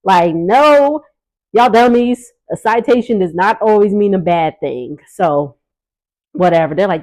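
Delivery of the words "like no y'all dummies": louder, sassy put-down; exasperated scolding. Real, not acted. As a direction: call them dummies with attitude. Scolding the cast.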